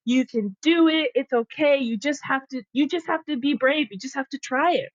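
a hint of a little girl cheering herself on; self pep talk. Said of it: "seven-year-old me is like".

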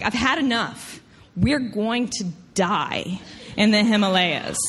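retold fed-up Southern accent; mad Southern accent. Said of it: "the Southern is coming out".

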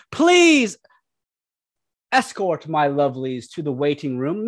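a lordly, languid please; god character voice. Acted. God figure commands.

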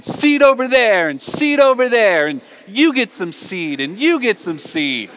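high, loud carefree scattering voice; careless farmer. Retold or imitated. Preacher voicing the careless farmer tossing seed, loud and high. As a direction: fling the words out like tossing seed. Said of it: "he's like saying".

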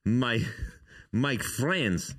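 halting mock Russian accent; horrible Russian accent. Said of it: "with my horrible Russian accent".

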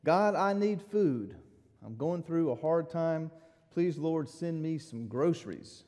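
a lightly voiced desperate prayer; pleading prayer. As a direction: cry out to God for help. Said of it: "and she said".

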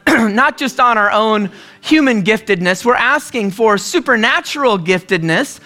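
a pastor's earnest spoken prayer, steady and pleading. Acted. Pastor praying over standing congregation, earnest plea. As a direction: pray over the room, sincere and reverent.

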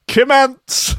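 high, loud disbelieving repeat of the name; incredulous. Real, not acted. Repeating the odd surname.

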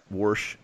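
"wash" said as warsh with an r; okie accent. Shown as a demonstration. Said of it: "I say wash".

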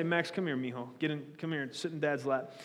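father calling his little son Max to his lap; tender to son. Retold or imitated. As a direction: call your son onto your lap gently. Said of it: "I'll say".

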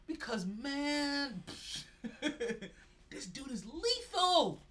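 laughing through slow words; cracking up while raving. Real, not acted. Laughing while praising the player.

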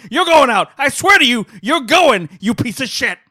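furious Pacino rant, building to a full shout; Al Pacino impression. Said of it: "this is my Al Pacino".

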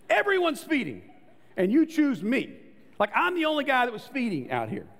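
high, loud, fed-up griping that keeps building; a driver venting, outraged, after a ticket; indignant rant. Retold or imitated. Driver alone in the car after a speeding ticket rants high and loud. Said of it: "you roll up the window and you go".

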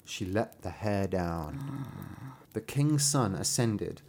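slow storyteller's build; suspenseful story narration. A narrator's reading. Narrator revealing the enchantress waiting above, slow suspenseful storytelling. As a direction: draw out the reveal slowly. Reads the fairy tale aloud.

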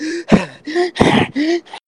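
high-pitched gasps; mock gasping. Kobold getting out of the jacks, gasping. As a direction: gasp for air, acting it out.

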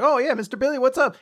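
high, perky play-acted reply; cheery call answer. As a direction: answer the boss brightly and eagerly.

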